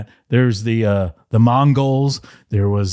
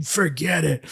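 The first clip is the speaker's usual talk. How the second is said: booing crowd; 9 semitones higher, slower than usual. Retold or imitated.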